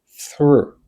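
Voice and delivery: "through" alone, one long falling syllable; pronunciation demo. Shown as a demonstration. Teacher showing the sound of the word, "through" drawn out. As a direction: model "through" clearly for repetition. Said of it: "This is the sound of this word".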